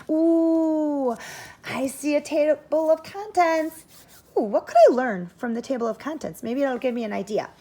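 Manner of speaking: mounting classroom excitement; excited discovery. Real, not acted.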